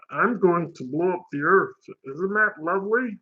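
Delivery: lilting cartoon alien voice; politely menacing little cartoon villain; Marvin the Martian. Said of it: "Marvin the Martian".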